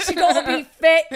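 joking Essex contestant voice; a cheeky mock Essex accent. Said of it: "I am doing the Essex accent".

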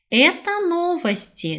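ordinary talk

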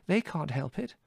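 high, gentle excuse; placating. A narrator's reading. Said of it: "said Mother placatingly".

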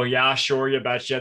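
put-on light Minnesota accent, folksy; a hint of Minnesota, Fargo style. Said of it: "someone with a Minnesota accent".

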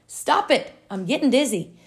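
high, loud cry to stop; acted protest. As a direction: cry out as the dizzy teacup. Teacup protests the spinning wheel.

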